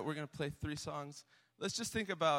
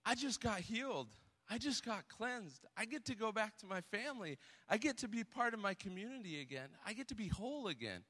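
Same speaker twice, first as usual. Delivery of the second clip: higher, quick-running excited voice, not loud; imitating excited joy; 5 semitones higher, 4 dB quieter than usual. Healed leper back to thank Jesus, excited, high and quick. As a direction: act out a rush of joy without shouting. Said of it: "in a loud voice and clapping and jumping".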